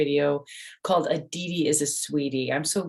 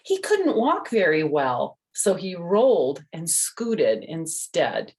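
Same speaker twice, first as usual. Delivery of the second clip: lively, raised storybook voice; reading to children. A narrator's reading. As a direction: tell it like a bedtime story for little ones. Reads the picture book aloud.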